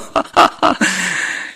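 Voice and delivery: breathy burst of laughter; real laugh. Real, not acted. Monk amused by his dialect slipping out, laughing. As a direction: laugh at your own dialect.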